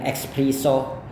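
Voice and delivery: espresso said as ekspriso with an added k; wrong espresso. Shown as a demonstration. Teacher imitates how Indonesians mispronounce espresso. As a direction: model the common mispronunciation ekspriso. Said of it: "itu kurang tepat ya".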